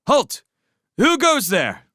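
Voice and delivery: high ringing shout from the parapet; sharp clear challenge. Acted. Matthias challenging the horde from the walls, ringing shout. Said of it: "voice rang out sharp and clear".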